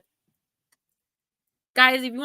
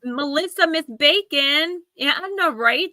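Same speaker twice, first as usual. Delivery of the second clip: excited greeting; 7 semitones higher, 4 dB louder than usual. Real, not acted. Greeting a chatter by name.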